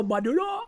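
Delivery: "Maduro" with a rolled Spanish r, softly; mock Spanish "Maduro", quiet and rising; imitating Spanish accent. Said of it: "but then go".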